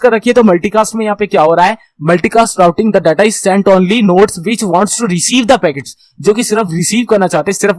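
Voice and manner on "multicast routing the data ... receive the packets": reads each English word very slowly; slow slide reading. Shown as a demonstration. Teacher reading the slide to students, very slow and deliberate. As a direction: dictate the slide line slowly to the class.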